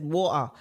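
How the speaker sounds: "water" put on British-style, the t swallowed; forced British pronunciation. Shown as a demonstration. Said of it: "like me, like, like I said".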